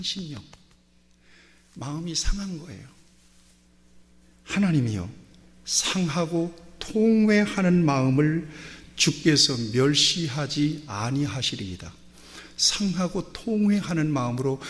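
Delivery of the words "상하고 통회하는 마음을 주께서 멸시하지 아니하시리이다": solemn psalm reading, slowed down; scripture recitation. Acted. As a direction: intone the verse slowly like a prayer.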